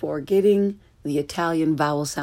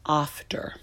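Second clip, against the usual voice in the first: "after" with a broad British ah; British accent; 5 dB quieter than usual. Shown as a demonstration. Teacher giving a British example, British accent on "after". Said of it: "flavor of your English is British".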